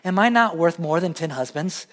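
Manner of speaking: teasing quote. Retold or imitated. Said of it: "I'll just kinda go up to her like".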